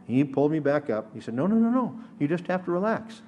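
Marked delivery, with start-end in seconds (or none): 1.3-3.2 higher-pitched string of quick no's, then easing off; imitated lifeguard correction. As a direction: lightly act out an instructor correcting a floundering pupil. Lifeguard correcting a sinking child.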